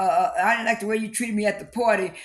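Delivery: imitating a tearful complaint through sobs; crying mother. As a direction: retell the mother's words half-crying. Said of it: "Her mother was just crying".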